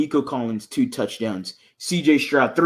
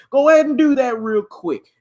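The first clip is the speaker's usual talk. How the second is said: hype shout; 9 semitones higher, 6 dB louder than usual. Real, not acted. Hyping the team to win.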